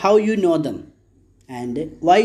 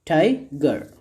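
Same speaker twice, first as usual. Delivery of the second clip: "Tiger" split into TI and GER, with a falling second beat; "Tiger" broken in two for a class; two separate syllables. Shown as a demonstration. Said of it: "here there are two syllables".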